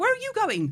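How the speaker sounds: high, loud, alarmed protesting tone.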